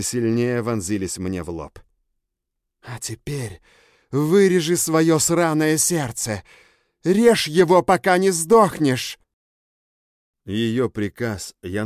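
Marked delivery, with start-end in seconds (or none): 2.8-9.2 loud, slow, high furious order; savage command. Acted. Bella orders him to cut out his heart, loud. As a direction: spit out the death order.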